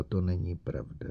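soft, dazed murmur; murmured softly to herself; quietly pleading; repeating, dazed. A narrator's reading. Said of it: "neustále opakovala".

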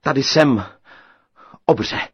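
a hint of a brave shout; calling out. A narrator's reading. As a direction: call the giant out bravely.

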